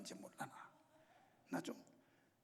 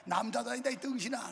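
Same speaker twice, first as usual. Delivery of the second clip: mock scolding. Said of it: "그놈 나한테 욕 많이 먹었는지".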